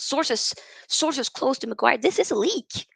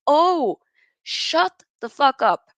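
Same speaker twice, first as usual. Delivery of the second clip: exasperated outburst; 3 semitones higher, 5 dB louder, slower than usual. Real, not acted. Snapping at Maguire's excuses.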